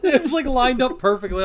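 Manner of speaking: laughing and loud. Real, not acted. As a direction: laugh through the line. Laughing at pun.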